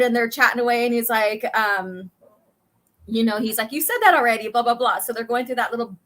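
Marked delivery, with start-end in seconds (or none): 3.7-5.0 louder, slightly raised annoyed retort; mock annoyed. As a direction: lightly act out an irritated pilot. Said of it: "one being annoyed".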